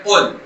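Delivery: "قل" started from the back of the mouth; careful, emphatic "قل"; heavy qaf. Shown as a demonstration. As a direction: demonstrate a thick q in "قل". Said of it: "جہاں پر آواز لگ رہی ہے کاف کی".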